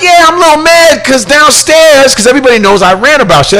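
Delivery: high, fast worked-up explanation; worked-up explaining. Retold or imitated. Host explaining his anger on air, high and fast. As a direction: rattle it off while still heated. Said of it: "So I'm like".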